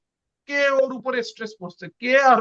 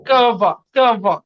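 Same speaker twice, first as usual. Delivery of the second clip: slow, loud কাভা, কাভা; teacher stressing the last syllable কাভা; 5 dB louder, much slower than usual. Shown as a demonstration. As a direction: drag out and punch কাভা. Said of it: "কাভার উপরে দেখেন stress পড়তেছে".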